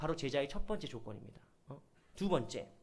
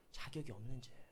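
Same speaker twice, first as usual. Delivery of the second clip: softer repeat; 8 semitones lower, 13 dB quieter than usual. Acted.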